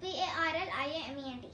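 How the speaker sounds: rapid letter by letter spelling. Real, not acted. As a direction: rattle off each letter fast. Spelling bee answer. (तेज़ी से अक्षर-अक्षर spelling)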